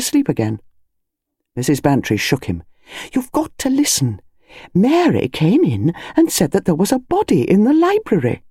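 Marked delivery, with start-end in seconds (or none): 3.1-8.4 higher, urgent wife shaking her husband awake; a lightly voiced wife, pressing him to listen; insistent wife. Wife urging sleepy husband.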